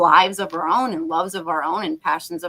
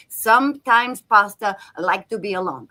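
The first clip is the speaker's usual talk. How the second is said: lightly put-on Italian accent; terrible Italian accent; 4 dB louder than usual. Quoting the film Big Night to co-hosts, terrible Italian accent. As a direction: do a bad, hammed-up Italian accent. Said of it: "that was my terrible Italian accent".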